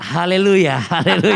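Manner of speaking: chuckling through the word; laughing. Real, not acted. Laughs while greeting.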